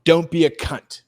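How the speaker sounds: attempted cockney line; British accent. Showing friends his only line, cockney accent. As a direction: have a rough go at cockney. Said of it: "the only one I can do is".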